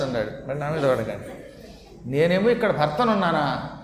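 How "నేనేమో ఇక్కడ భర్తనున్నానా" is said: husband scolding, louder and rising; angry Vishnu. Acted. Vishnu scolds Lakshmi, loud and angry. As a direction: scold her for ignoring you. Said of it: "ఆయన కోపం వచ్చింది".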